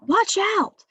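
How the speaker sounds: sharp warning call, high and loud; commanding shout. Shown as a demonstration. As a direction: yell it like a real warning. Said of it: "that's like when you say".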